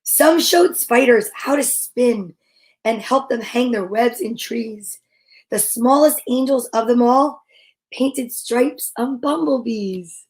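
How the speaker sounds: gentle picture-book read-aloud; storybook reading. Acted. Reading a picture book about angels to listeners, gentle.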